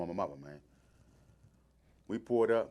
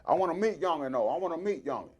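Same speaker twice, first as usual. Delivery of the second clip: a higher, lightly put-on Boogie voice; imitating Boogie; 5 semitones higher than usual. Retelling Boogie praising the young Congo player, higher mock voice. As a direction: tease his hero's way of talking, voice raised. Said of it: "Why you sound like".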